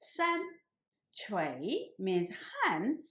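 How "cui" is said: Cui drawn out with a rising tone; second tone. Shown as a demonstration. Teacher showing students Cui in the second tone. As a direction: say Cui slowly, pitch climbing. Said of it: "pronounced in the second tone".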